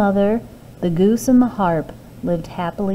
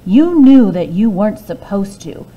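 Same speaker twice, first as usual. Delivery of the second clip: angry mother; 7 dB louder than usual. Acted. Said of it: "she was very angry with Jack".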